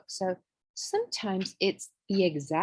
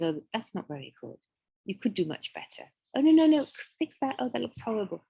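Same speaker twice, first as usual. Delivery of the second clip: critical inner voice. Retold or imitated. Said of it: "and the voice says".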